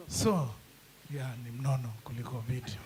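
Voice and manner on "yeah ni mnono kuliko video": laughing. Real, not acted. Joking about his weight.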